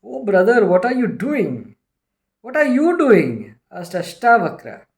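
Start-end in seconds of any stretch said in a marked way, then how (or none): 0.0-1.8 annoyed. Retold or imitated. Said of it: "King Janaka became annoyed". 2.4-3.6 raised voice. Retold or imitated. Sage answers annoyed king.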